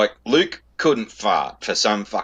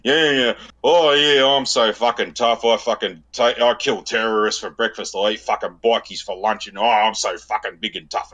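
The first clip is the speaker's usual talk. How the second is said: mocking tough guy. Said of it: "taking the piss out of his body language".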